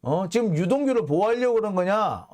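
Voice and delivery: mild mock indignation, building as it goes; retold angry challenge. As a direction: argue like an annoyed lawyer, lightly acted. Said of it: "이런 식으로 화를 내요". (화난 변호인을 흉내 내며 따지듯)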